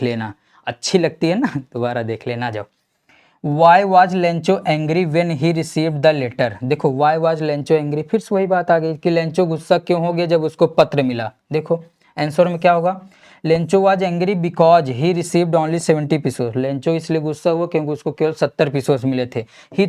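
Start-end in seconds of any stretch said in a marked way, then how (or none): 3.4-6.5 very slow, word by word reading of the question; slow dictation read. Acted. Teacher dictates the last question. 13.4-16.5 very slow, word by word reading of the question; slow dictation read. Acted. Teacher dictates the answer.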